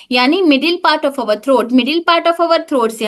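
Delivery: slow, clear teacher's gloss; walk them through it slowly; slow explanation. Shown as a demonstration. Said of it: "translating the term". (धीरे समझाते हुए)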